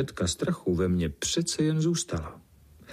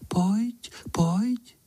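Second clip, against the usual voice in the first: much higher, breathy whispered call; whispering; 12 semitones higher than usual. Acted. Unseen cat whispering to the boy in the corn, high whisper. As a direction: whisper the invitation like a secret. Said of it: "a hlásek šeptá".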